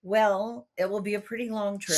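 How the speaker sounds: gracious on the surface, smug underneath; turning down a church invitation, smugly polite; smug brush-off. Retold or imitated. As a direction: politely turn him down with a smirk. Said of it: "graciously said".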